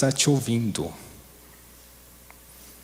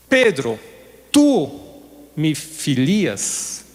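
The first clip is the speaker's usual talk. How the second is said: very slow gentle question; much slower than usual. Retold or imitated. Jesus asks the third time.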